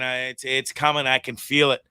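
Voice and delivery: quiet, sniffly, stuffed-up voice; sniffling. Real, not acted. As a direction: talk through a blocked, sniffly nose. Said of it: "sorry about the sniffling again".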